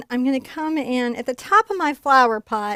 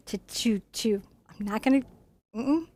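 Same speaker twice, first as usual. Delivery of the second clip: too moved to finish the sentence; choked up; 5 dB quieter than usual. Real, not acted. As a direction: voice catching, breaking into a whisper. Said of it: "just always cracks my heart".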